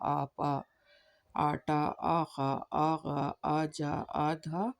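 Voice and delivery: slow, each आ held long; stretched aa words. Shown as a demonstration. Teacher reading aa-words slowly for children. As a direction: draw out the opening आ in every word. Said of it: "अलीफ को खींचकर पढ़ना होगा".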